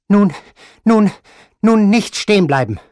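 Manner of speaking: high, loud shout. Acted. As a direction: yell at them not to stop. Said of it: "schrie die Großmutter".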